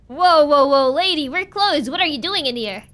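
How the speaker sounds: loud startled clerk; voiced shop worker, alarmed; store clerk voice. Store clerk stops the player.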